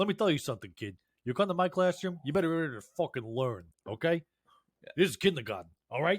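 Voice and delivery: put-on tough New York accent. Imagining a tough teacher talking to a kindergarten kid, in a Tony Soprano tough New York accent. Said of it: "don't you sound like the most".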